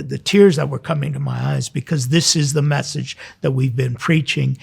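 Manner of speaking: ordinary talk, nothing marked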